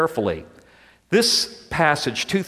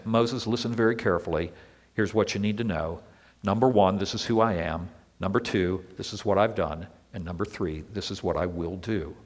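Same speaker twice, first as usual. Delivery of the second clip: God speaking to Moses; 7 semitones lower, 7 dB quieter, faster than usual. Retold or imitated. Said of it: "reveals himself to an upset Moses by saying".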